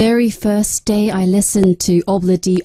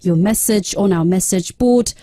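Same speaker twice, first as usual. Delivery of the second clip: reading the script in British English; British-accented radio script. Shown as a demonstration. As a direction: give a proper British read. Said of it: "I'll try British".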